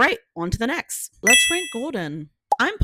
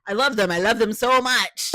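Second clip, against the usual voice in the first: gushing; 4 semitones higher, 6 dB louder than usual. Real, not acted. Gushing fan.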